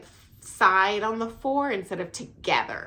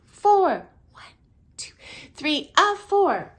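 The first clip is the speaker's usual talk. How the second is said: counted out loud and higher, "a four" slow and punched; counting the clave rhythm; 8 semitones higher, 3 dB louder, slower than usual. Shown as a demonstration. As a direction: call out the clave counts like a teacher. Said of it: "count out this rhythm for you guys".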